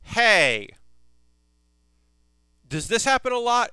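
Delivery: high, loud, puzzled voice as Rimuru; loud, high quizzical anime hero; hesitant Rimuru. Retold or imitated. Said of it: "Rimuru's like".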